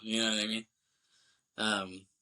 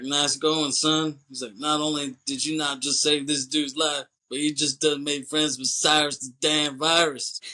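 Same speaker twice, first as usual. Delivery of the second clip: mock Baby O; 4 semitones higher, 4 dB louder than usual. Baby O congratulating Poe.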